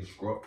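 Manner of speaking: "scraw-" with SKR in place of STR; mispronounced STR. Shown as a demonstration. Host showing she can't say STR words, mispronounced "scraw-". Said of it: "I always do an accent".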